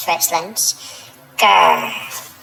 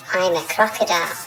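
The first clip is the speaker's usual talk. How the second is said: soft reveal; 3 semitones lower, 5 dB quieter, faster than usual. Acted. Final reveal, softer.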